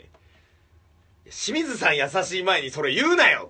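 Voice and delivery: high, loud, slow exasperated protest; loud retort. Retold or imitated. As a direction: yell it at them, half laughing, drawn out. Retorting at overheard comedians. (高く大きな声でゆっくりツッコむ)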